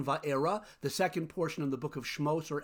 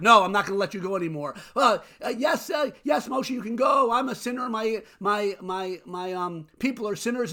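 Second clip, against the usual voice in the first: mock Pharaoh snapping back, then yelling his surrender; hammed-up Pharaoh; 3 semitones higher, 5 dB louder than usual. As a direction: play a flustered tyrant, flipping from no to yes. Pharaoh snaps back, then relents.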